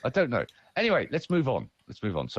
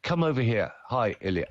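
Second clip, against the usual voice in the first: film star's line. Acted. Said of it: "they look at you and say".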